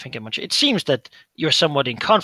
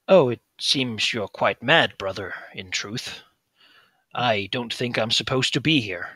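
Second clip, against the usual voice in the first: put-on calm older brother; slower than usual. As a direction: gently point out his madness.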